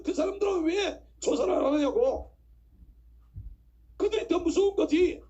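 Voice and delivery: fired-up preacher demanding fairness; indignant preaching. Acted. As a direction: argue hotly at the congregation, hammering each point. Preaches angry protest to congregation.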